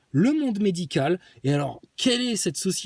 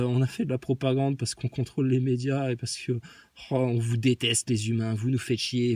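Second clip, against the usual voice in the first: confessing villains; 6 semitones lower than usual. Retold or imitated. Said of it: "ils avouent, ils disent".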